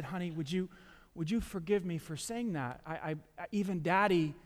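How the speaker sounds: gentle apology. Retold or imitated. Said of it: "I said".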